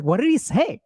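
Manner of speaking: high-pitched, pressing mock demand; insistent questioning. Wife pressing her husband about the call, mock insistent. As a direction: imitate an impatient wife pushing for details.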